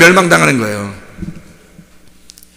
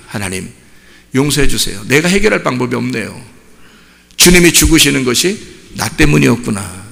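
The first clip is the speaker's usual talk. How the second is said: low, soft penitent prayer; hushed imitation of remorseful prayer; retold tearful repentance; 5 semitones lower, 4 dB quieter than usual. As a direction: plead quietly for forgiveness as a repentant sinner. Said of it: "그래서 주님께 우는 겁니다".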